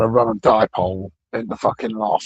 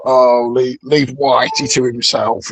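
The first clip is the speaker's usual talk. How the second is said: mock dismissive; 6 dB louder, slower than usual. Imagined victims brushing off white racism.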